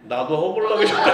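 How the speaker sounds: chuckling through the words, voice lifted; a laughing, delighted reply; laughing quote of God. Retold or imitated. Quoting God's reply to the pastor, laughing. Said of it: "우리 아버님이 뭐라 하신지 아세요?".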